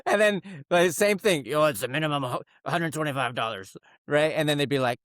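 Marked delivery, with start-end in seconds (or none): 1.5-3.8 fake casual voice. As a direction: sound like a chill bro at a new shop. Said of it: "the amount of voices I had to come up with".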